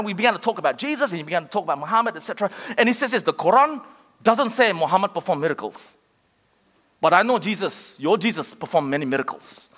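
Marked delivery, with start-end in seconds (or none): 3.2-9.7 lightly imitated Arabic accent, lower toward the end; attempted Arabic accent. Preacher quoting a Muslim taxi driver, attempted Arabic accent. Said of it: "That was my best Arabic accent".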